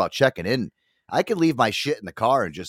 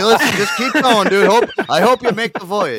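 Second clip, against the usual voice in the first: laughing through it, much higher and louder; laughing send-off; 9 semitones higher, 6 dB louder than usual. Retold or imitated. Imagining waving off the hamster wheel man, laughing. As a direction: cackle a mock farewell. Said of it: "I'd be like".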